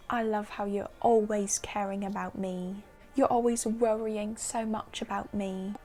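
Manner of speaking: lightly imitated tipsy British accent; a touch of mock-British gushing. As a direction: put on a mild British accent, as if drunk. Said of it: "in his little British accent".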